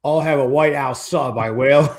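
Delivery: lightly snarled food order; mock snarl. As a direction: imitate a rocker's snarl. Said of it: "Everything you said was a snarl".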